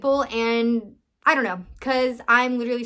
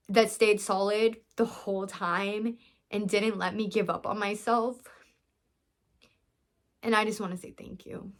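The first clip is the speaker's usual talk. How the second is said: choked up; 4 dB quieter than usual. Real, not acted. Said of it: "Why am I getting emotional?".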